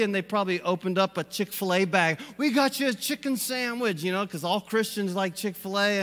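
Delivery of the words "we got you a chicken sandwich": higher, eager voice; excited disciples. Retold or imitated. Disciples offering Jesus a sandwich, eager higher voice. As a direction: proudly present the sandwich. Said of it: "they're excited".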